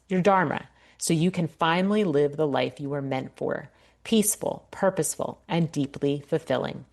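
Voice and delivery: polished, measured promo read; scripted ad read. Acted. Coach pitching her coaching to women in midlife, scripted ad read. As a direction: read it like a podcast sponsor spot.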